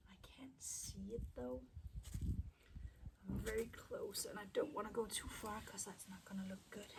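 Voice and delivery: whispering while holding breath; hushed, breath held in concentration. Real, not acted. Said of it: "I'm holding my breath".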